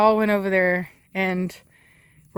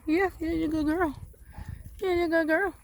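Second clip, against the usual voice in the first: higher, softer sing-song praise; 8 semitones higher, 6 dB quieter than usual. Real, not acted. Praising a dog.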